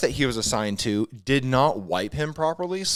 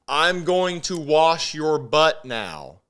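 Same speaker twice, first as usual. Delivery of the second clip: slow, slightly raised, deliberate delivery; slow announcement; 4 semitones higher, slower than usual. Retold or imitated. Partner leaning over to tell a patient, slow and deliberate. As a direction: spell it out slowly for the patient.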